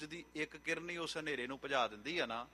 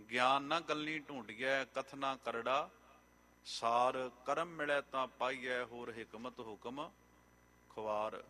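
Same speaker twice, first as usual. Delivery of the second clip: slow scripture recitation; slower than usual. Acted. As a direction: draw out each line of the verse. Recites scripture verses slowly.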